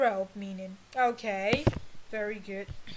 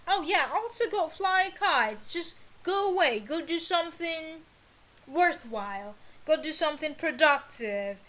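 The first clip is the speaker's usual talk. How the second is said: annoyed dismissal; 3 semitones higher than usual. Acted. Teacher shooing off an annoying visitor, irritated. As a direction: shoo the pest away, fed up.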